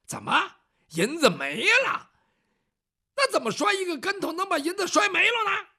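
提高嗓门气冲冲地质问; 财主发火追问银子下落. Acted. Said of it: "当时就火了". (财主冲仆人发火质问)

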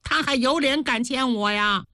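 indignant anger. Acted. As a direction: bristle with indignation. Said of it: "柳眉倒竖，杏眼圆睁".

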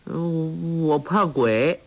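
put-on high, slow childlike whine; simple girl crying out. A narrator's reading. Sha Gu complaining she is hungry, high childlike whine. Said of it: "傻姑说".

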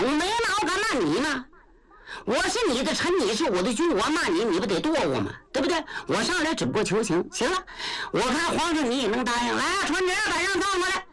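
嗓门偏高, 快嘴憨直的糊涂老将, 理直气壮; 像个大大咧咧的老粗跟皇上讲歪理; 焦廷贵. Acted. 焦廷贵辩解并假传圣旨. (高嗓门、语速快的憨直老将)

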